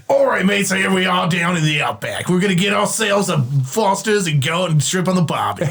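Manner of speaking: hammed-up Aussie outback patter; Australian accent. Shown as a demonstration. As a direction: put on a broad Australian mate's voice. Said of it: "I can do a good Australian accent".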